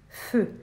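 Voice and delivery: feu said whole, vowel clearly voiced; full syllable. Shown as a demonstration. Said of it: "prononcent la syllabe en entier".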